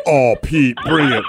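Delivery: mock low lover's voice; imitated man voice. Host teasing caller about using it in bed, mock man voice. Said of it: "have you ever broken out that voice".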